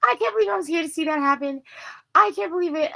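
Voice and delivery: high, fast, astonished woman's voice; stunned stranger. Retold or imitated. Rescuing woman tells the narrator she can't believe it, high astonished. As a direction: gush in disbelief at what you just saw. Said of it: "And she's like".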